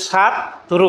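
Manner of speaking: ছাত্র split into two beats, "chhat" then "tro"; syllable break. Shown as a demonstration. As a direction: say ছাত্র in two separate pieces. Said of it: "শব্দটাকে কিন্তু ভাঙা যায়". (ছাত্র দুই ভাগে ভেঙে উচ্চারণ)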